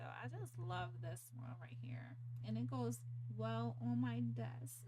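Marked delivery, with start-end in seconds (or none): 0.0-2.2 soft whispered fondness; whispering. Real, not acted. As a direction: whisper it lovingly. Whispered admiration of turtle.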